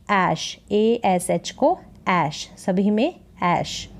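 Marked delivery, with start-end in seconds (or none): 0.1-0.6 "ऐश" in one syllable, open vowel into sh; straight ash sound. Shown as a demonstration. Teacher showing how A-S-H is read, straight ash sound. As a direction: say "ऐश" straight through, like English "ash". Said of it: "इसको सीधा सा पढ़ देंगे".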